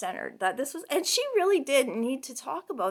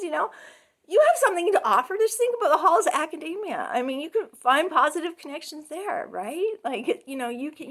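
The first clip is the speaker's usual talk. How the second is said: retold pep talk; 3 semitones higher, 4 dB louder than usual. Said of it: "I'm like".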